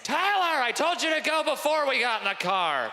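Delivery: high, mock scolding parent voice; a hammed-up parent nagging a kid; mock parent yell. Parent scolding kid before car trip, mock yell.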